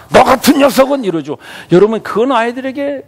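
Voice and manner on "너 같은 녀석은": mock parental outburst, loud and high; angry parent. Pastor imitating parents scolding their child, angry outburst. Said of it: "막 화가 나니까".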